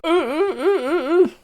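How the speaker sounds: high gagged whimpering; muffled whimpers. Acted. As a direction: whimper through a gagged mouth. Gagged child trying to speak.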